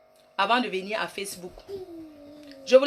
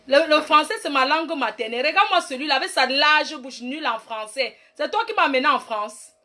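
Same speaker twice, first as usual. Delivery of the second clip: angry rant; 3 semitones higher than usual. Real, not acted. Answering a man who mocked her French, fast angry rant. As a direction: tear into him, higher and faster.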